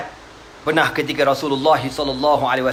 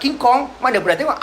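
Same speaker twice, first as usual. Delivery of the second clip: much higher amazed question; excited listener; 8 semitones higher than usual. Retold or imitated. Meccans amazed at Nadr's tale, high and excited. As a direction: gasp at the wonder, high.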